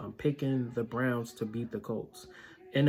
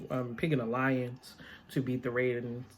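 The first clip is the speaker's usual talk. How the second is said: talking through a yawn; words stretched by a yawn. Real, not acted. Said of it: "Sorry once again for yawning".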